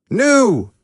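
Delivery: very high, raging cry of no; furious shout. A narrator's reading. Naruto shouting as the pipeline door closes. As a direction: roar it as the door shuts. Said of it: "Naruto shouted".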